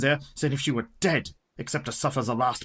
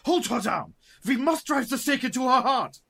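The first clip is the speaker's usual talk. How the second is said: much higher, urgent shouted orders; rally the men to hold her down; the professor orders the men to stake the vampire; urgent command; 11 semitones higher than usual. Acted. Professor urging the staking.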